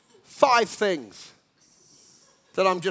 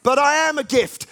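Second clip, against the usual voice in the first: higher and louder, pleading claim; insistent inner voice; 5 semitones higher, 5 dB louder than usual. Acted. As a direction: push back like someone proving himself. Inner voice, therapist dialogue.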